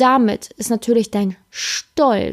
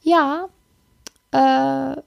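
lightly voiced sheepish boyfriend; apologetic man. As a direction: fumble into sorry, then make a plan. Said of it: "der Mann sagt dann häufig".

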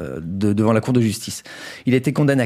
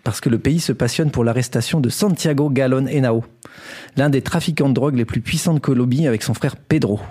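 measured storyteller's news read; scripted story narration. Acted. Host tells co-hosts a Colombian crime story, scripted narration. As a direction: present it like a prepared radio chronicle.

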